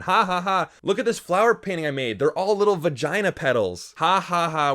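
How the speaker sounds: loud, high sarcastic ha-ha-ha and boasting; mock hilarity. Reviewer mocking a character's crude artwork, mock hilarity. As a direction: parody someone delighted by their own joke.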